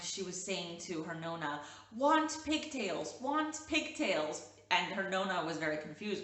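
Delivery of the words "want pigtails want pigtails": put-on higher, slow little-kid whine; imitating a toddler. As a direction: mimic a toddler begging, drawn out. Toddler quoted asking for pigtails.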